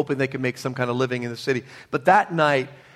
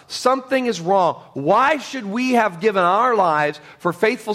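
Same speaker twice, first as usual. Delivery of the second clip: raised, complaining indignant voice; indignant missionary; 4 semitones higher than usual. Retold or imitated. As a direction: voice the old missionary's bitter grievance, pitched up. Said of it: "And he said".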